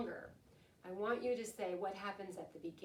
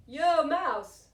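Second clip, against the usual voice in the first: loud, higher, breezy hello; cheery greeting; 6 semitones higher, 14 dB louder than usual. Acted. Hare bursting into the den to greet Mouse, cheery loud hello. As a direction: call it out like an old pal.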